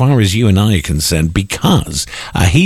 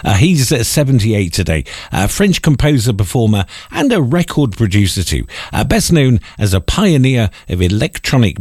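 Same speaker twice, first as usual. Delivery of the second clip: put-on cod French accent. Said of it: "do my cod French accent".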